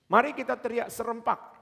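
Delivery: high, loud eager proposal; rally the group to shout; excited suggestion. Retold or imitated. Friend proposes shouting together, high loud call. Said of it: "Ada satu teman bilang gini".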